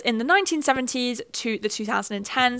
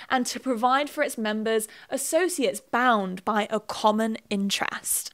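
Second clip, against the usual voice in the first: put-on posh British accent, soft and proper; 5 dB quieter than usual. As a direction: read it like a refined English lady. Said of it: "I'm gonna read this in a posh accent".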